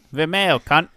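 mock Australian pronunciation; put-on Australian accent. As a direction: toss it off as a jokey Aussie. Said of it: "Yeah, Australian".

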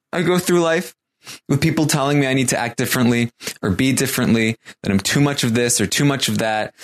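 high-pitched imitation of a crying man, easing off; put-on weepy voice settling toward normal; mock tearful. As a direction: retell it with a mild mock whimper. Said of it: "crying. Um, and he responds".

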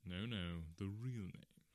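mildly sweet, unruffled; sweetly. Acted. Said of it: "said Holmes sweetly".

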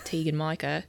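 bad mock Australian accent; hammed-up Aussie name call. Shown as a demonstration. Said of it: "That's a terrible Australian accent".

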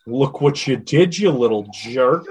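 playful scolding. Real, not acted.

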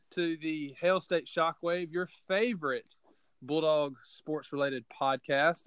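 slow, formal show opening; announcer intro. Acted. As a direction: welcome listeners like a radio host.

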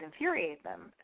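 "infuriate" tripped over, hoarse; fumbling "infuriate" with a tired voice; stumbled word. Real, not acted. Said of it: "I can't even speak".

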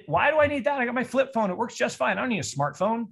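imitating doubters sniffing at the smartphone; mock skeptic. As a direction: play the scoffing flip phone owner.

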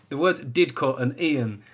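ordinary delivery

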